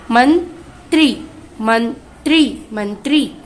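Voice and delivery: slow. Shown as a demonstration. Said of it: "त्र में ई की मात्रा त्रि".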